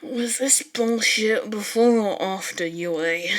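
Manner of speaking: slow, forced through clenched teeth; gritted teeth. Acted. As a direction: grind each word out through gritted teeth. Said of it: "as he grit out another question".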